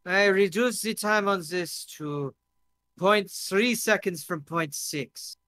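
put-on foreign-accented inventor, a touch proud; lightly played accented boast; tipsy foreign guest. Drunk guest shows his carrot peeler, accented and proud.

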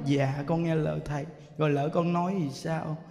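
low, soft imitation of a meek devotee; meek obedience. Woman promises to obey the monk, retold meek obedience. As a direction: drop down into timid compliance. Woman submits to the monk's warning.

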